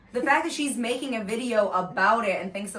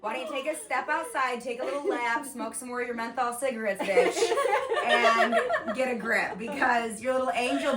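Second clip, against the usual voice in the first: high, loud laughing yell; shrill overlapping reality fight; 6 semitones higher, 4 dB louder than usual. Acted. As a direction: scream it like a reality show fight. Yelling at the mom in the clip.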